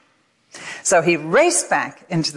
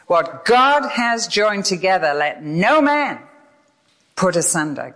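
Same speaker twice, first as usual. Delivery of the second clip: husband's big loud voice; 2 semitones higher than usual. Retold or imitated. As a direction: proclaim it like a preacher at the altar, Bible in hand. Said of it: "he says that in a big loud voice".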